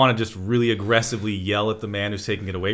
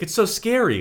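high mock-scared voice; 11 semitones higher than usual. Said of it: "she's like".

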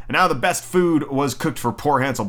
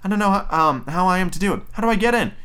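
put-on high girl voice; little girl; 6 semitones higher, faster than usual. Gretel stalling the witch at the oven, high questioning voice. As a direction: ask helplessly, pitched up. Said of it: "Gretel saw what she had in mind and said".

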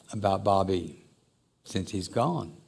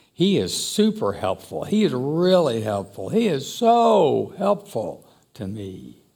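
building emphasis on each helpful, louder and slower; emphatic; 4 semitones higher, 5 dB louder than usual. Shown as a demonstration. Preacher showing how the Greek prefix stresses helpful, building emphasis. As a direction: lean harder into helpful every time. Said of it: "they emphasized the word by that prefix".

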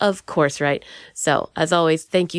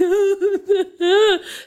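mock crying laugh; 11 semitones higher than usual. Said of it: "now that the crying is done".

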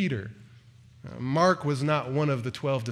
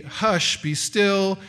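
commanding rebuke; 3 semitones higher, 3 dB louder, much slower than usual. Acted. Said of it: "rebuked the wind".

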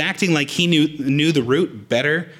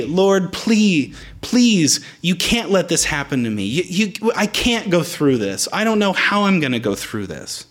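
desperate prayer; 4 semitones higher than usual. Pretend. Voicing a frightened prayer.

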